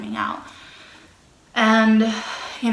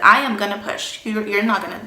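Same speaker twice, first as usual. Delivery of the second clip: insistent; 6 dB louder than usual. Retold or imitated. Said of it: "And I was like".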